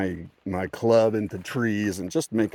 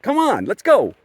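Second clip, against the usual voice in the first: high, loud re-enacted yell; mock battle cry, pitched way up; retold shouting; 13 semitones higher, 9 dB louder than usual. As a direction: act out shouting a challenge into the dark. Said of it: "this time I started shouting".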